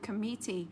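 committee as com-MIT-tee, said softly; soft model of committee, weight on MIT; stress on second syllable. Shown as a demonstration. Teacher giving the only reading, committee as com-MIT-tee. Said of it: "chỉ có một cách đọc thôi".

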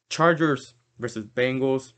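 burping mid-word. Real, not acted. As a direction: talk through a burp. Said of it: "I'm sorry, I'm burping right now".

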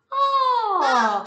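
loud squealing giggle; puppet laughing. Acted. Puppet Oscar laughing excitedly.

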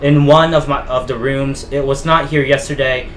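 measured, dramatic diary narration; diary read-aloud. Acted. Player reading George Walker's found diary to viewers, dramatic read-aloud.

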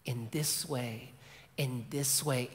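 choked-up father. Retold or imitated. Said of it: "the dad's starting to get choked up".

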